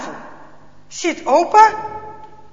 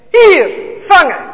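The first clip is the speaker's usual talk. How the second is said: loud, slow call across the room; 6 semitones higher, 10 dB louder, slower than usual. A narrator's reading. Officer calling out while tossing the Bible, loud. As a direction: throw the call out to someone.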